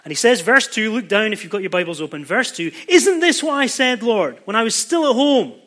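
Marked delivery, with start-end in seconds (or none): 2.9-5.5 higher, exasperated protest to God; voicing a livid Jonah's complaint; indignant Jonah. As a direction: push it up high like a fed-up prophet complaining. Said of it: "He's doubly angry, absolutely raging".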